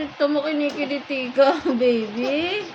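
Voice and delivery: being tickled. Real, not acted. Tickling the baby while laughing.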